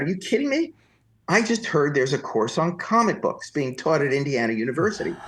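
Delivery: high, indignant ranting citizen; mock indignant taxpayer rant; fake outraged taxpayer. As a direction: play the furious taxpayer. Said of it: "began to scream at this man".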